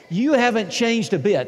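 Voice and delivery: high, loud gushing compliment; loud flattering quote. Retold or imitated. Church members flattering the returning pastor, loud. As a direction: gush it to the congregation. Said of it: "That's what they said".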